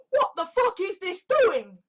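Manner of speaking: high, incredulous question; acted disbelief. Muslims looking at Saudi Arabia, acted disbelief.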